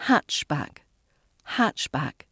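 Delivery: "hatchback" stressed on HATCH, dropping away; first-syllable stress. Shown as a demonstration. Teacher repeating the noun, first-syllable stress. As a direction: punch the first half of "hatchback", let back fall. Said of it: "putting that stress on the first part".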